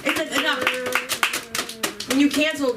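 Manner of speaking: slow, drawn-out sigh of enough; drawn-out exasperation. Real, not acted. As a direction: stretch it out, fed up.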